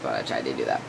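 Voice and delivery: breathy whispered aside. Real, not acted. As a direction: drop to a whisper. Quiet aside after voice crack.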